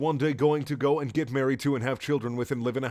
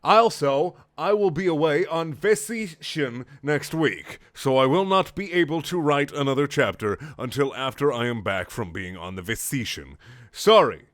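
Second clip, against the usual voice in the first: put-on higher, earnest kid reading its note; mock kid author voice; 4 semitones higher, 4 dB louder than usual. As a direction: apologize like a gushing kid.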